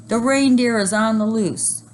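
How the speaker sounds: high, loud alarm; panicked shout. A narrator's reading. Neil warning about the loose reindeer, loud alarm. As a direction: warn everyone, panicking. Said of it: "shouted Neil".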